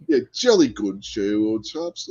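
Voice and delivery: lightly put-on British chap; jokey British toff; mock British accent.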